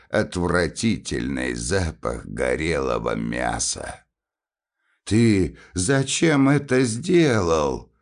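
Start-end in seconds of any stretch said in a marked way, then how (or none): 5.0-7.9 higher, urgent exclamation; a sharp, reproachful cry; exclaiming. Acted. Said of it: "воскликнул Милорад".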